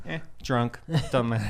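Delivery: low, soft slurred mumble; drunken mumble. Pretend. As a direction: shrug it off, drunk. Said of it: "And I go".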